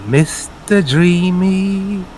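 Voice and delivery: slow, sing-song taunting call; drawn out slow sing-song. Acted. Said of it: "A sing-song voice going".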